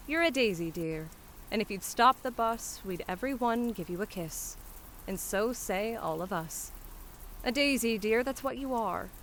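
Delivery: lightly voiced cheery soldier; a hint of a hearty lad's compliment; grateful soldier, hearty. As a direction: praise the flower girl fondly.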